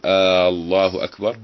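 آه stretched long with a rise at the start of الله; wrong drawn-out hamza. Shown as a demonstration. Teacher demos the wrong stretched آه الله. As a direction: draw out the opening آه like a question. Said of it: "أن يقول".

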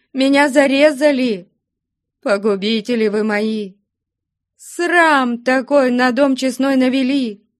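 high-pitched, keening reproach; wailing lament. A narrator's reading. Mother reproaching her runaway daughter, high wailing lament. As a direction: lament loudly like an outraged peasant mother.

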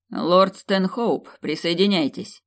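drawn-out cold order; slow command. Acted. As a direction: say it slowly, as a ruler's order. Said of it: "приказал Эдвард". (медленный холодный приказ)

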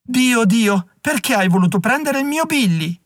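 grieving mother's high-pitched lament; wailing lament. A narrator's reading. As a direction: cry out to God in grief. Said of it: "Il pianto della donna si fece più alto".

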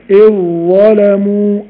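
إذ ظلموا as hamza then doubled ظ; slow إذ ظلموا, ذ dropped; full merge. Shown as a demonstration. Teacher demonstrating complete assimilation. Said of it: "أكن همزة وبعدها ظا".

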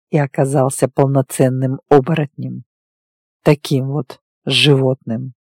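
low, even male character voice; werewolf recounting his past. Acted. Werewolf telling his lover of his childhood, restrained low voice. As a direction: tell a painful history with restraint.

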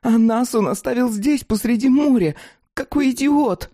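high, angry raging voice; furious rant. Acted. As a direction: rant at the reckless fool. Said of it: "в ярости вскричала Фатида".

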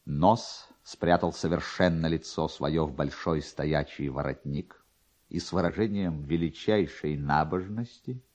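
usual speaking voice

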